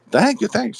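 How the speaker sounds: put-on high, thick German accent; elderly German woman thanking. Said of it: "very German accent".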